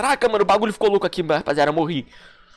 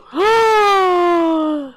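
shocked gasp; 8 semitones higher than usual. Real, not acted. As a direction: gasp in disbelief. Shocked reaction.

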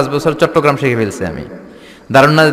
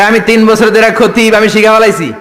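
friend imitated; 6 semitones higher, 3 dB louder than usual. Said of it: "কয়".

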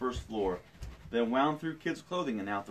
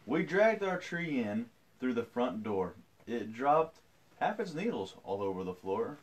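storytelling. A narrator's reading. Reads picture book aloud.

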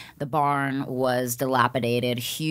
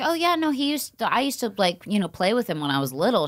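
lightly voiced mom, higher and breezy; casual mom; 5 semitones higher than usual. Mom shrugging off the family ghost, lightly voiced casual mom. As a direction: toss it off like nothing strange. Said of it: "she was just like".

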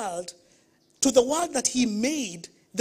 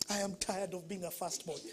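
retold complaint; 3 semitones lower, 12 dB quieter than usual. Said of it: "And I said".

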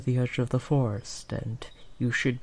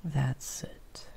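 soft whispered encouragement; coaxing whisper; 6 dB quieter than usual. Acted. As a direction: whisper it to calm a shy animal. Coaxing the sheep to follow.

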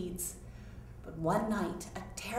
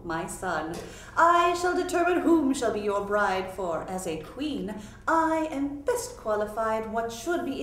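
a lightly voiced imperious queen, louder; queen commanding; 3 dB louder than usual. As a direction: dismiss him like a bossy royal mother. Queen lays down the rules.

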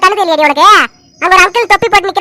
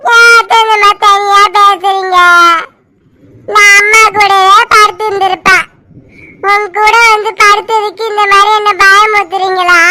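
put-on scared child complaining. Child sharing aunt's bed, frightened and complaining. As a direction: whimper a reproach as a little girl.

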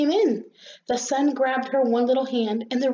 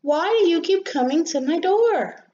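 high, louder, indignant little rosebud; exasperated challenge; 8 semitones higher, 5 dB louder than usual. Acted. Rosebud challenges the visitor at the door, exasperated. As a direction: demand it in a raised voice.

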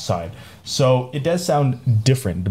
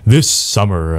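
mock trailer voice; 6 dB louder, slower than usual. Spoofs a movie trailer opener.

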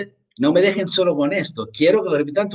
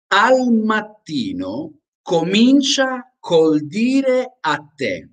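slow, clear dictation pace; slow read-aloud for repeating; 5 semitones higher, slower than usual. Shown as a demonstration. Teacher reading slowly for students to repeat. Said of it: "quiero que repitan conmigo".

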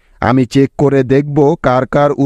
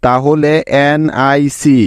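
slow spelling. Shown as a demonstration. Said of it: "নিতে হবে শুধু সি".

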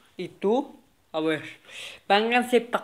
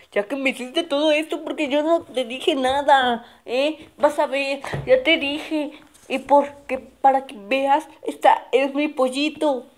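higher, firm claiming voice; the kid insisting the chicken is his; bossy kid; 4 semitones higher than usual. Acted. Kid tells the other it will never be his, higher bossy.

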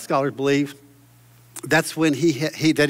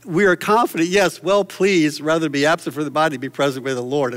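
joyful scripture reading. Real, not acted. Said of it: "I love how it says".

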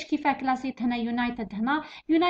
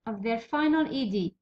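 dictating slowly; 4 semitones lower, much slower than usual. Shown as a demonstration. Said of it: "repeats dictation".

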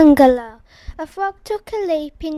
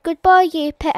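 hasty goodbye; 7 dB louder than usual. Acted. Bee hurrying off.

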